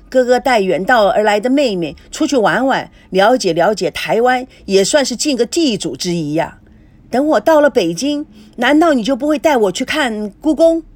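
lively, insistent coaxing; coaxing suitor. Acted. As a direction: talk them into coming along. Figure coaxes her out.

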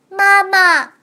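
put-on high, small baby creature voice; thin reedy voice. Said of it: "小家伙细声细气地问".

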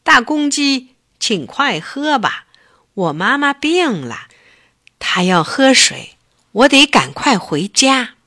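a cub in a rush to get home; hurried little bear. Acted. Little bear urges the rooster to drink fast, urgent cub voice.

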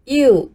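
"U" as "you" with a falling tone; slow, falling "U"; falling fourth tone. Shown as a demonstration. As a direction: let "U" drop like Mandarin fourth tone. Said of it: "到这里要发成四音".

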